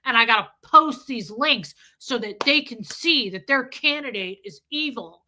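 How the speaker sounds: mock the ex-husband lecturing that he is right; imitating ex-husband's rant. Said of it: "And he'd go".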